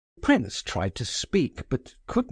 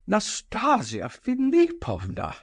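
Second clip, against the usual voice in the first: high, trembling cry of her name; frightened older gentleman pleading; quaking cry; 10 semitones higher than usual. A narrator's reading. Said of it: "cried Totski in a quaking voice".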